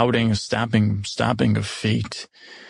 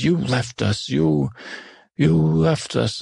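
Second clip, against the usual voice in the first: mildly acted hurt anger, raised toward the end; upset accusation; 5 semitones higher, slower than usual. Upset abandoned creature accusing the newcomer, mildly angry. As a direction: accuse them, higher on the repeat. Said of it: "upset with me, angry".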